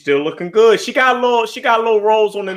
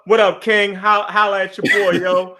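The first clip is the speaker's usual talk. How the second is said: street voice. Retold or imitated. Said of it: "you want me to say".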